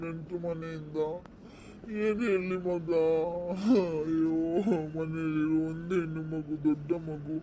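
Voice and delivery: father weeping as his daughter leaves home; tearful father lamenting; crying father. Acted. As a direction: sob out the goodbye, voice cracking. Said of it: "ಅಳ್ಬೇಡ".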